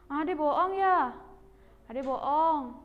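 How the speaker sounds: accusing. Acted. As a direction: catch a younger sibling in a fib. Sibling accuses the other of lying.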